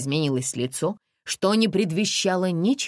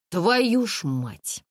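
exasperated curse; 4 semitones higher, much slower than usual. Acted. Mom exasperated.

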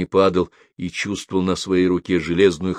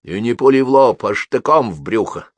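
through gritted teeth; 4 dB louder than usual. A narrator's reading. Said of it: "процедил".

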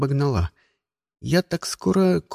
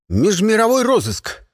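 loud official bark, pitched up; barked command; 7 semitones higher, 4 dB louder than usual. A narrator's reading. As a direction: bark it like an officer to scare her. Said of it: "гаркнул девчонке я".

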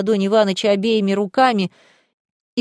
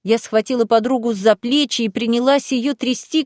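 ordinary delivery, nothing marked

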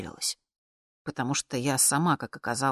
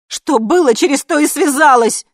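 loud, much higher shout; 10 semitones higher, 14 dB louder than usual. Acted. Daughter shouting at her mother, defiant shout. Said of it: "закричала я".

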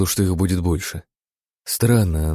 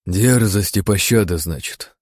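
dry. Acted. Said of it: "повторил сухо я".

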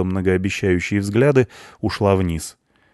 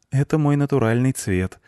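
put-on higher, pleasant girlish reply; friendly; 7 semitones higher than usual. A narrator's reading. Blonde answering the punk about her hair, friendly. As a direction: answer him amiably, pitched up. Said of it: "приветливо улыбнулась ему блондинка".

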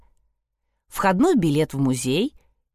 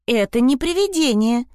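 a touch of impatient cutting in; 5 semitones higher, 3 dB louder than usual. Acted. Melanie cutting off Trude, mildly impatient. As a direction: interrupt sharply, a bit louder. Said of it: "нетерпеливо перебила её Мелани".

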